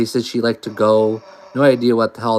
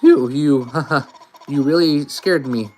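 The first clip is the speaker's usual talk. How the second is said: put-on uneasy, halting girl reading her fears; nervous Noelle. A lightly voiced scared girl, unsure and halting. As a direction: Noelle frets over Chris's strange voice.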